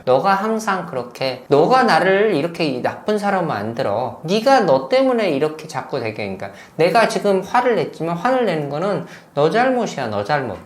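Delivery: mock guilt-tripping. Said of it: "이렇게 하는 것들이 역시 죄책감을 조장시키고".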